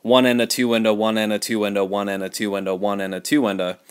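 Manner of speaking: "one and a, two and a" said quickly and smoothly; flowing fast count. Shown as a demonstration. Teacher shows students the easier fast count, smooth. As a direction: let the one and a roll easily. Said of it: "a lot easier to say that really fast".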